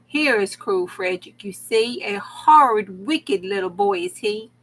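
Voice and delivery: put-on dramatic read-aloud of an old cautionary rhyme; storybook narration. A narrator's reading. Reader performing a cruel rhyme for listeners, storybook narration. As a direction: read it like a spooky children's tale. Reading Struwwelpeter aloud with comments.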